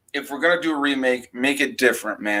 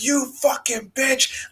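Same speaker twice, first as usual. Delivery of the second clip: high, slow put-on killer doll voice; Chucky voice; 12 semitones higher, 5 dB quieter, slower than usual. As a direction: drag out the curse like Chucky. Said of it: "And he's like".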